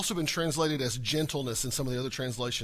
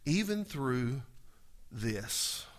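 calm trust; 6 semitones lower, 8 dB quieter, slower than usual. Retold or imitated. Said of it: "you go".

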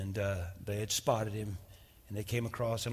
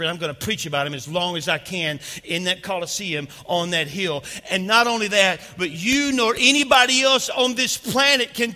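rising from firm to a near shout, much higher and louder; fiery preacher shouting defiance; preaching at full force; 7 semitones higher, 10 dB louder than usual. Acted. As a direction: build the sermon to a roaring climax.

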